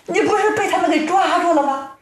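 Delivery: high, quick flustered wife voice; storyteller's acted fretful wife; tearful wife. A narrator's reading. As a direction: ask in high-pitched bewilderment. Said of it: "正在屋中掉眼泪呢".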